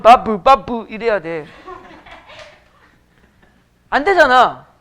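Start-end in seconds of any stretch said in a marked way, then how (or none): 0.0-0.9 "바브" with an extra vowel after the b. Shown as a demonstration. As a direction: spell out "바브" syllable by syllable. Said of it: "비읍 소리 제대로 날 거면". (받침에 으를 붙인 발음)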